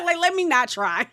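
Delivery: loud, high laugh through the words. Real, not acted. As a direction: crack up at your own bad attempt. Laughs at own failed accent attempt.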